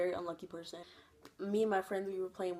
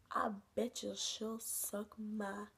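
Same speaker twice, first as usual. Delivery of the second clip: leer it out slowly like a creep; creepy guys; 2 semitones higher, 5 dB quieter, much slower than usual. Retold or imitated. Guys at the wetlands call to the girl, slow leering creep. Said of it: "and they're like".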